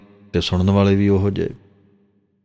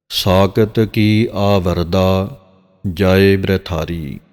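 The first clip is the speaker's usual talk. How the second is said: slow, drawn-out chant of the verse; slow scripture recitation; much slower than usual. Shown as a demonstration. Granthi demonstrating Gurbani pronunciation to the congregation: slow recitation. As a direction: recite each word slowly and carefully. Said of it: "ਇਹ ਜਿਹੜਾ ਪਾਠ ਬੋਲਿਆ ਗਿਆ ਹੈ ਨਾ ... ਇਸੇ ਤਰ੍ਹਾਂ ਹੀ ਪੜ੍ਹਨਾ ਹੈ".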